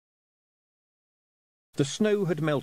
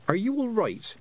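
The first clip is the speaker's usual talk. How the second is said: much higher, urgent plea; desperate; 11 semitones higher than usual. Acted. Tiffany urging the dazed boy, much higher desperate. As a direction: shake him awake with your voice. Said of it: "said Tiffany desperately".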